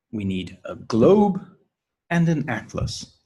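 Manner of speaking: globe rises, atlas falls; list intonation. Shown as a demonstration. Teacher modelling a two-item list, rise then fall on atlas. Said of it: "Every item in the list has a rising intonation".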